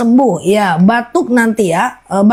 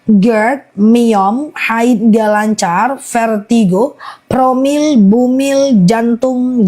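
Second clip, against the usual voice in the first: slow list, each ailment drawn out; slower than usual. Real, not acted. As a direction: list them slowly, item by item. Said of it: "Aku ulang pelan-pelan ya". (daftar dibaca pelan-pelan)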